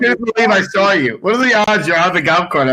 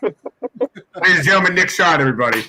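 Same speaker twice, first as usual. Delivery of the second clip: announcer intro; faster than usual. Real, not acted. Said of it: "a professional broadcaster introducing you".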